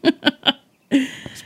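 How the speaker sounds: drawn-out squeaky praise; slow high silly voice. Acted. Silly approval.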